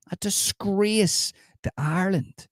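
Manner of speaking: slow, high, sneering condemnation; mock scorn. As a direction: drag it out in theatrical contempt. Berating a pro-life commenter.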